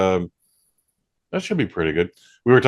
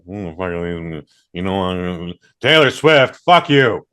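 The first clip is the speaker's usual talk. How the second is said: put-on slow slurred drunk mumble rising to a louder curse; mock drunk slur; 3 semitones lower, 3 dB louder, slower than usual. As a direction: play drunk, slurring then swearing. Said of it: "slurred speech".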